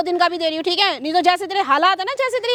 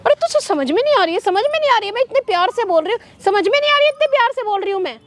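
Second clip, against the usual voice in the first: angry scolding; 4 semitones higher than usual. Acted. Daughter-in-law yelling at mother-in-law, rising anger. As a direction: voice climbing into a sharp yell. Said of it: "मुझे गुस्सा आ रहा है".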